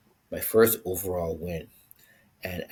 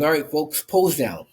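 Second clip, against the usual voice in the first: loud, higher emcee call to the crowd; 7 semitones higher, 7 dB louder than usual. Retold or imitated. Stage emcee calling the bodybuilders to pose down, announcer shout.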